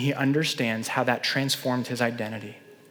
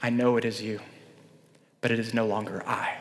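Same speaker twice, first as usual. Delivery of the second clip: soft, low, calm answer; Augustine answering the woman, quietly; quiet reply; 6 semitones lower, 6 dB quieter than usual. Retold or imitated. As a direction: say it gently and firmly. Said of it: "looked back to her and said".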